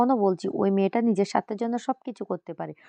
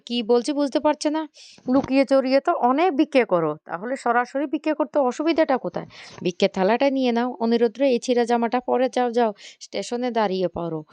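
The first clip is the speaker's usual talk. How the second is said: mildly acted taunt, raised pitch; scornful scolding; 4 semitones higher than usual. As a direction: scold with mocking scorn, voice lifted. Taunting father scolds in retold quarrel.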